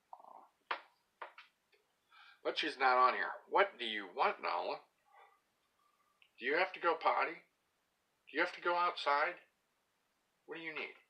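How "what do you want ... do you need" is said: higher coaxing questions to the dog; sing-song the questions up high; pet voice. Real, not acted. Asking the dog about going out.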